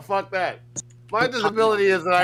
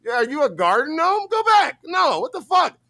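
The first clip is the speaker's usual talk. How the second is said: mock outburst; 3 semitones higher than usual. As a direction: yell it like the mocking chat. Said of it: "And it's".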